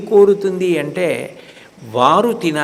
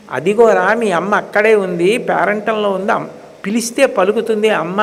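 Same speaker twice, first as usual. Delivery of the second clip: lightly voiced aunt, a touch higher, coaxing a crying child; 3 semitones higher than usual. Aunt coaxing the crying child to eat, lightly voiced and coaxing. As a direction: soothe the toddler like a doting aunt. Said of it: "అంది అత్త".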